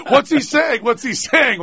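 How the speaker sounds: high, insistent imitated questioning; baffled onlookers. Puzzled listeners asking mother about babbling child, mock bewilderment. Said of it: "they kept going".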